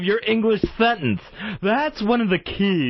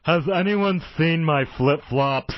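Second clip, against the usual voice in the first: lisp. Acted. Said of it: "going with a little lisp".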